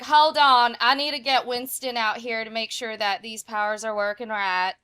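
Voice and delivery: character voice. Pretend. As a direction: call out for the bird. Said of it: "She's like".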